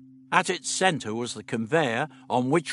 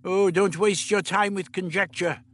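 sharp dismissive retort, louder; the Doctor retorting to Stephen; 8 semitones higher, 5 dB louder than usual. A narrator's reading. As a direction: brush the idea aside. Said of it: "the doctor retorted".

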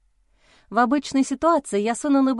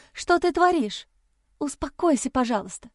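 alarmed plea; 4 semitones higher than usual. Acted. Heroine restrains struggling man.

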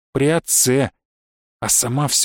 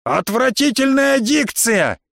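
indignant woman; 8 semitones higher, slower than usual. A narrator's reading.

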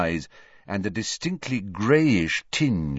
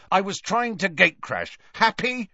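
put-on sharp, raised boy's retort; angry; 11 semitones higher than usual. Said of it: "he said angrily".

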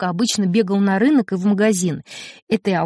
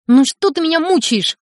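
high pleading outburst; words bursting out of a tormented boy; pitched-up anguished cry; 7 semitones higher, 3 dB louder than usual. Acted. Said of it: "вырвалось у Славки".

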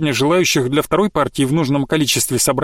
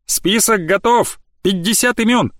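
triumphant announcement; 6 semitones higher than usual. Acted. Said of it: "торжественно объявила шоковая Маша".

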